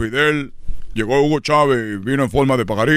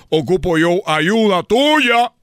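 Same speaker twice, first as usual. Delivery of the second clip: súplica exagerada; 4 semitones higher, slower than usual. Acted. Ruega al retrato de su papá.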